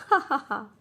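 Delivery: spelt-out mock laugh; acted laughter. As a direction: pretend helpless "ha ha". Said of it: "trying to control his laughter".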